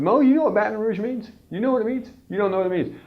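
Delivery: high, sing-song teasing voice; playful teasing. Acted. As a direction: tease a friend playfully. Teasing Mo about Baton Rouge.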